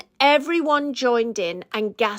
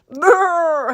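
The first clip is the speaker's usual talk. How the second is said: spluttering brrr; 6 semitones higher than usual. A narrator's reading. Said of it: "he spluttered".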